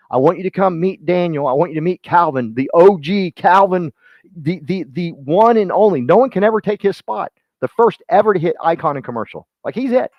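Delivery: high, emphatic hype introduction; bragging him up. Shown as a demonstration. Recruiter introducing Calvin to a prospect, bragging excitedly. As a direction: build him up like a living legend. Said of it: "you just brag about him like that".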